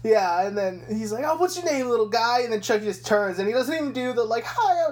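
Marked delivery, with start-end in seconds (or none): 1.3-2.4 put-on higher, louder baby-talk cop; cooing cop. The cop cooing at the doll, higher and sweet. 4.5-4.9 much higher, louder, playful hi; chirpy doll greeting. Retold or imitated. Mocking the doll's cheerful line, much higher and chirpy.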